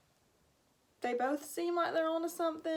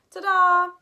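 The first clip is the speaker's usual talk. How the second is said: triumphant ta-da; 6 semitones higher, 14 dB louder than usual. Acted. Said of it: "reader's exclamation".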